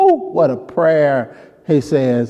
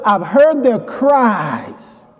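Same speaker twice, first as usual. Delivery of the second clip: slow emphatic quote; 5 semitones higher, much slower than usual. Acted. Repeating God's words slowly.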